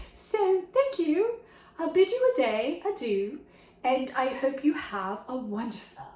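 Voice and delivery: lightly put-on British accent saying goodbye; playful British accent. Vlogger signing off to viewers in a mock British accent. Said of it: "I don't know why I have an accent now".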